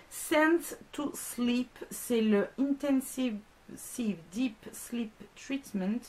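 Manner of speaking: slow, careful English with a heavy French accent; reading English labels with a thick French accent. Real, not acted. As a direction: spell out the English brand names in a French accent. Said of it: "quelle horreur cet accent".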